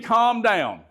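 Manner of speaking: high-pitched mock scolding; mock exasperated command. Shown as a demonstration. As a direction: demonstrate a tactless, high-pitched order to settle. Demonstrating the wrong phrase to use.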